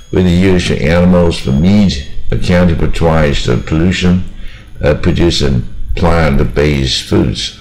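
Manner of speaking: longer connected phrases, brief pause after SUGGEST; slightly brisker demonstration reading. Shown as a demonstration. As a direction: keep it moving through each sense group. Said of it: "这边念快一点".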